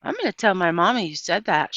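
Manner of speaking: loud tattletale threat; boy shouting a threat; shouted threat. Acted. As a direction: yell it like you'll run tell. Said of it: "shouted Stevie".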